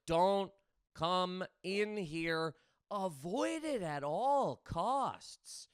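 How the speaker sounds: slow, grave warning voice; slow it right down like a dire official order; lightly voiced ominous official; ominous controller warning.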